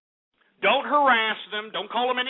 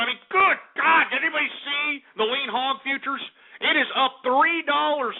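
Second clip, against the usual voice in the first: outraged; 5 semitones higher than usual. Acted. Outraged market rant.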